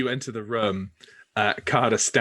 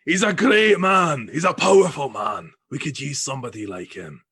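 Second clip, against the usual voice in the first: louder, higher boisterous praise; roaring with laughter; 4 semitones higher, 7 dB louder than usual. Acted. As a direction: boom it out, delighted with him. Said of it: "roars in laughter again and says".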